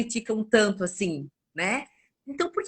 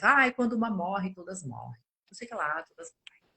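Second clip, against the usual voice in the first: mocking whisper; 5 dB quieter than usual. Mocking women's posts online.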